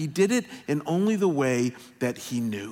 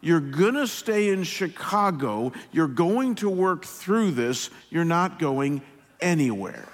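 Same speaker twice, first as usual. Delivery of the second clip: unsympathetic father; 2 semitones higher, slower than usual. Retold or imitated. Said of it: "without hardly any empathy at all".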